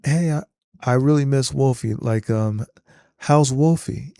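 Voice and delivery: lightly voiced casual teen on the phone; a hint of a friendly kid checking in; John Connor's voice. Terminator mimicking John to his foster mom, casual. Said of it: "in John Connor's voice".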